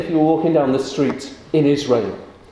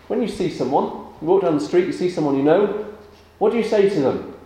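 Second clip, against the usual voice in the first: put-on talking to children; 4 semitones higher, faster than usual. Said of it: "question for the children again".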